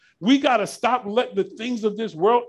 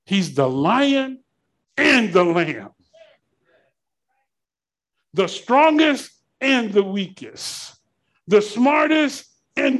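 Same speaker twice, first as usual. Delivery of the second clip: slow reverent declaration; 3 semitones higher, 4 dB louder, slower than usual. Real, not acted. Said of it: "makes me shout".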